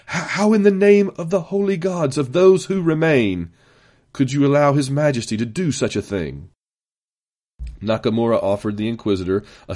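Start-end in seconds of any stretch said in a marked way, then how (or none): 0.1-6.5 indignant demand. A narrator's reading. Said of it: "he managed to sputter. Then, as he regained his composure".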